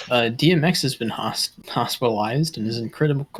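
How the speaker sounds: talking around a wad of gum; words mushy from chewing gum. Real, not acted. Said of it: "I can't talk with it in my mouth".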